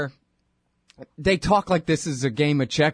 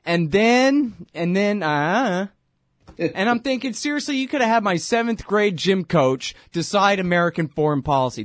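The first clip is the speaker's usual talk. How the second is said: real, raised exasperation at the pundits; exasperated; 5 semitones higher than usual. Real, not acted. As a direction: burst out in disbelief. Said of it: "exasperated outburst".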